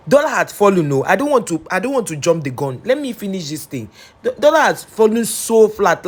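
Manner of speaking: bursting to share good news; excited. Real, not acted.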